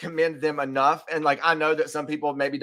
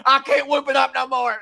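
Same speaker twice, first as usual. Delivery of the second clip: much higher, hammed-up whine of a drained star; worn-out celebrity; 11 semitones higher, 4 dB louder than usual. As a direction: play a celebrity too tired to cheer, half-joking. Mock exhausted celebrity, then kidding.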